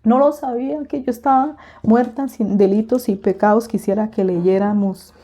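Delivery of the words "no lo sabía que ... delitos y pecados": higher, overcome, breaking thanks to God; tearful thanks. Retold or imitated. Kneeling on the floor thanking the Lord, higher and overcome. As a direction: pray as if trembling with joy on your knees. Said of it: "yo decía".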